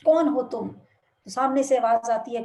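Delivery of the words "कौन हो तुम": louder shout into the hills; boy shouting at the mountains; loud call. Retold or imitated. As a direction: yell the question out. Boy calls into the valley.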